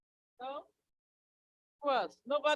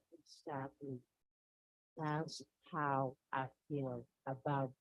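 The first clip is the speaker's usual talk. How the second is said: calm husband; 3 semitones lower than usual. Acted. Husband explains his calm faith.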